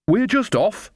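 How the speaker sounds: put-on high, cheery old woman's chirp; brightly. A narrator's reading. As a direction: chirp it out, all innocence. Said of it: "said Nanny Ogg brightly".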